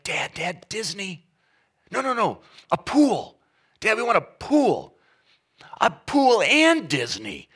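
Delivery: put-on high, eager kids pleading with dad; excited kids begging. Kids at the mall begging dad for a pool and Disney, eager. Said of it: "they're like".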